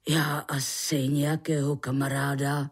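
low-pitched man's confession; earnest admission. Acted. Egon admits he needs a friend, earnest low voice.

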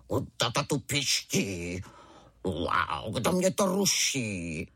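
low, slow mock roar of a tiger cub. Tiger cub woken by his mother, a low slow mock roar. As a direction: growl it like a small tiger. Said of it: "zařval divné jako tatínek".

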